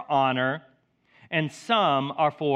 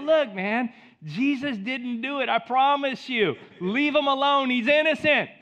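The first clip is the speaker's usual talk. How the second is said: higher, insistent protest; acted defensive plea; 7 semitones higher, 3 dB louder than usual. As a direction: plead his innocence, pitch climbing.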